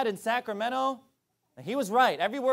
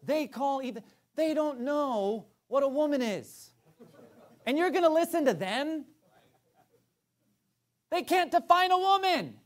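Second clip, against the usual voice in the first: much higher, mocking; scornful high preaching; 7 semitones higher than usual. Preacher mocking the world before the congregation, much higher. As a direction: ridicule them from the pulpit.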